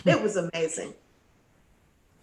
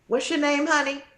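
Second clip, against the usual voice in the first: put-on higher, gentle voice as if to a little kid; sweet talk to a child; 8 semitones higher, 3 dB louder than usual. Bandleader asks the new girl her name, sweet as to a child. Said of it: "this little tone with me like I was maybe eight".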